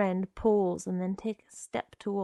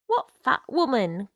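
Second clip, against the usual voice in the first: crying out; 3 semitones higher, 7 dB louder than usual. Acted. Girl challenging the man at her door, crying out. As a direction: cry it out as a sharp question. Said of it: "Connie cried".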